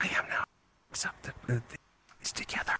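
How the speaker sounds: soft, unvoiced whisper. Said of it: "I gotta whisper".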